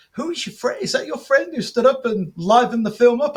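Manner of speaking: keen questioning. Retold or imitated. Acts out Tarantino's keen question.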